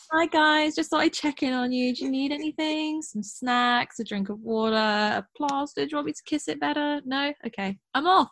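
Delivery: high, fast, sweetly fussing caretaker; kissing it better. Retold or imitated. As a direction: dote on them like a mother hen, quickly. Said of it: "he just, like, checks in, like".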